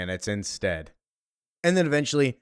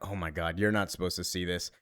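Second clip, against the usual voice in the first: much softer, queasy voice; quiet; 6 semitones lower, 7 dB quieter than usual. Acted. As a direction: hush it out, feeling sick. Hungover, about to throw up.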